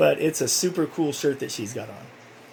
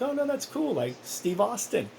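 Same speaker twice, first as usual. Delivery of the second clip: mock excited; 9 semitones higher than usual. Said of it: "and I'm like".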